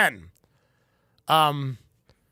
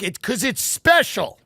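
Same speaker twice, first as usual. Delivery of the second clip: mock emotional; 3 semitones higher, 3 dB louder than usual. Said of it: "I'd get emotional".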